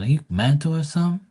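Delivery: hammed-up disgusted cousin rant; mock scolding cousin. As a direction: shame her, half joking. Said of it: "I'm like".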